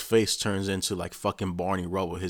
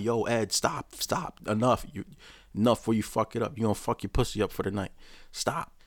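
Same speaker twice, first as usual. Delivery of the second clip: urgent pleading intervention; 3 semitones higher than usual. Pretend. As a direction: try to call him off before he ruins it. Imagined coach calling him off.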